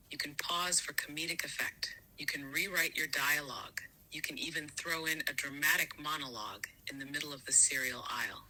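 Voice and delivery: breathy hushed whisper, voiceless. Acted. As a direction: lean in and whisper it like a secret. Whispered list of possibilities.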